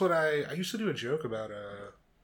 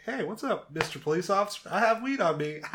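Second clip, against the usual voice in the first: casual greeting; 5 semitones higher than usual. Retold or imitated. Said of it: "it's like".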